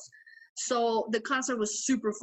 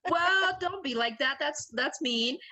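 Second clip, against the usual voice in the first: slow mock-whiny protest; mock hurt; 3 semitones higher than usual. Real, not acted. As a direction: whine it out slowly.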